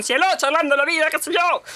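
hint of the syrupy cielo; mild shop lady tone. Still chatting with the shop lady, lightly cooing. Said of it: "ciertas entonaciones".

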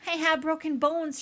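high, strained rasp; hurt, raspy character voice. A narrator's reading. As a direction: rasp it out like an injured mother bear. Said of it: "she rasped".

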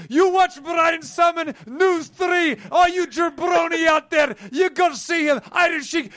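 loud, high Iron Sheik style shouting; wrestling promo. Acted. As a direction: bellow it like a wrestling heel.

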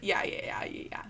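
whispered robotic yeahs; flat robot voice, fading out. Acted. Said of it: "you just did, like, a robot voice".

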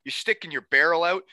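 imitating a coach poking fun; mocking coach. Coach making fun of a player's posture, mocking. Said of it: "him making fun of me".

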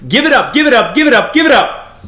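booming MC announcer voice; ringmaster. Acted. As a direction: hype the crowd like a circus ringmaster. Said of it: "I'll throw the old M C voice".

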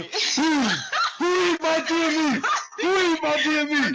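high-pitched, loud mock yell of an outraged father; angry dad yelling. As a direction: bellow it like a dad whose dinner got stolen. Dad storming in over deer meat.

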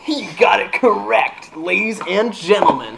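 fighting game announcer. Acted. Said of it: "that announcer voice".

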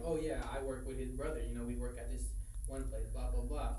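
regular-talking partygoer. Retold or imitated. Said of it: "He's talking regular".

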